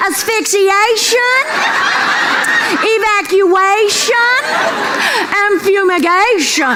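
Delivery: each "shun" word slowly stretched and punched; drawn-out list. Acted. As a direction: savour every "shun" like a punchline. Listing the three "shuns" for laughs.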